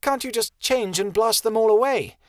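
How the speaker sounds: bitter snarling demand; snarled. A narrator's reading. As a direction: lash out in frustration. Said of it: "Kia snarled".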